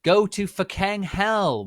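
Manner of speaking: high, loud, slow cursing; furious yell. Acted. The author screams at the critics in fury.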